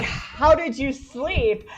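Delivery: drawn-out question, lightly voiced French Canadian guy; French Canadian man, accent skipped. French Canadian guy asks her next morning, lightly imitated. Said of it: "can't do the French Canadian accent".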